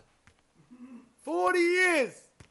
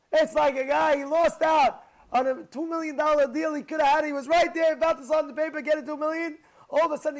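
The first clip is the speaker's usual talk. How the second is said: loud, raised, driving sermon voice; fervent preaching; 6 semitones higher, 7 dB louder than usual. Acted. Rabbi stirring his audience about one lost mitzvah, fervent preaching. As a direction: preach it hard, building the fire.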